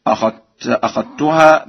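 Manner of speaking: "أخذتها" said akhattuha; "أخذتها" with no dhal heard, just a strong tt; merged dhal and ta. Shown as a demonstration. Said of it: "بإدغام الذال في التاء".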